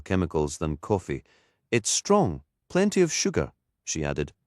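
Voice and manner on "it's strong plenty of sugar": higher, chirpy Newcastle vicar showing off; a lightly voiced Geordie lilt, proud of her thermos; vicar's voice. Anna describes her coffee.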